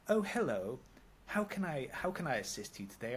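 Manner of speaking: mock sing-song "how can I assist you"; posh phone voice. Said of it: "when she, like, answers the phone".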